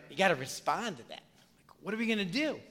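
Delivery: unvoiced, hushed aside to the congregation; whispered aside. Pastor whispers the point to his church. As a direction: drop to a confiding whisper.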